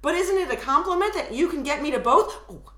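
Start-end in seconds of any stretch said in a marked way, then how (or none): 2.5-2.6 suddenly soft narrator tag; belated stage whisper. Shown as a demonstration. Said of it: "this is what it sounds like".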